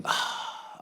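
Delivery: quiet, airy "ah" of dread; soft exhaled groan; breathy sigh. Retold or imitated. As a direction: let out a hushed, voiceless ah. Reacting to a noise, retold.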